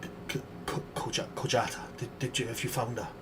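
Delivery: frightened stutter, barely voiced; shaky stammering voice. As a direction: stammer it out, terrified and shaken. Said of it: "with a, a shaky voice".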